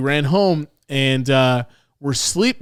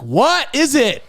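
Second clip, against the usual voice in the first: alarmed question; 11 semitones higher, slower than usual. Retold or imitated. Kid alarmed by mom.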